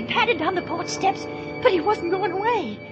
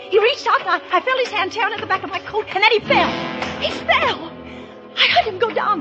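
agitated, higher-pitched telling of a chase; frightened recounting; 3 semitones higher than usual. Acted. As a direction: relive the terror of being grabbed. Narrator relives being grabbed in chase.

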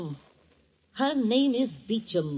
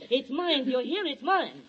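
angry insistence; 6 semitones higher than usual. Acted. Sister quarrel over high boy.

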